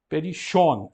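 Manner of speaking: "Perichon" with the double sigma as SH, pe-RI-shon; Ionic pronunciation. Shown as a demonstration. Teacher models the Ionic reading for students, clear. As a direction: read "Perichon" with a SH sound in the middle. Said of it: "Nós optamos por ler como sh".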